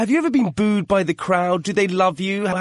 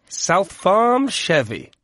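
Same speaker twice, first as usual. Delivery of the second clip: slowed down, every word spaced out; slow repeat; 3 semitones higher, much slower than usual. Shown as a demonstration. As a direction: say it again slowly for clarity. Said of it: "Sorry, repeat".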